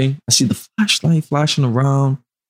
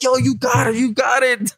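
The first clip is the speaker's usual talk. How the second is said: much higher mock yell of surrender; acting mad white; 9 semitones higher than usual. Retelling surrendering to the cop, much higher mock-compliant yell. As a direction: hands up, act overly compliant and white. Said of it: "I started acting mad white".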